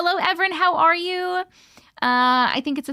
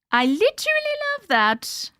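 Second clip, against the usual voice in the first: higher, stressing "literally"; delighted; 10 semitones higher than usual. Real, not acted. Gushing to Mojo about the phrase, delighted. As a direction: gush over it.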